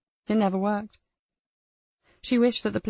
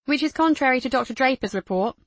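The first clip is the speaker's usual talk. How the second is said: female character voice; 4 semitones higher than usual. Acted. Kat continues.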